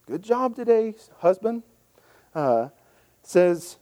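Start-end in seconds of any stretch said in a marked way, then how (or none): 0.1-1.6 sarcastic. Retold or imitated. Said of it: "we need a sarcasm font".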